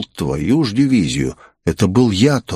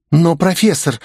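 higher-pitched cool female character; cool, raised-pitch objection; cold reply; 9 semitones higher than usual. A narrator's reading. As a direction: coolly justify yourself to the professor. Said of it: "холодно ответила девушка".

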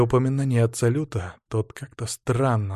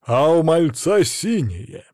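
hidden sadness; 5 semitones higher, 5 dB louder, slower than usual. A narrator's reading. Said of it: "с потаённой печалью в голосе".

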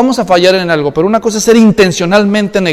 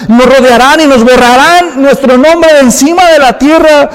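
raised, pleading lament to the Lord; Joshua lamenting; 3 semitones higher, 4 dB louder than usual. Retold or imitated. Preacher voicing Joshua pleading with God, raised lament. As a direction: cry out to God like a defeated leader.

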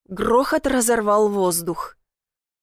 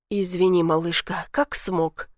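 мягкий мужской голос; 3 semitones lower than usual. Acted. Майор отвечает героине.

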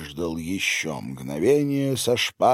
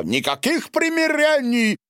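very high, loud shout in a strange voice; furious refusal; 4 dB louder than usual. Acted. Silvio shouts down the countess's apology, very high. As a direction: scream the refusal.

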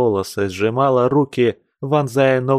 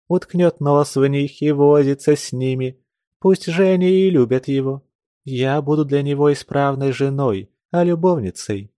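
a raised, resentful woman's voice; lightly voiced wife, bitter and aggrieved; Ulyana's bitter complaint; 4 semitones higher than usual. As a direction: pour out her grievance about a dull husband.

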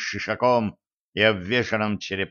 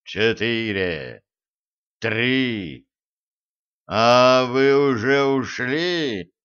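rolling thunder voice; slower than usual. Acted. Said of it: "голос Марса продолжал раскатисто грохотать".

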